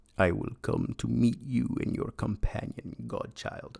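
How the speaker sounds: put-on rough, creaky, raspy voice like an old vampire. Quoting Ragnar from the graphic audio audiobook, imitating Ragnar's audiobook voice. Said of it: "I sounded like Nosferatu".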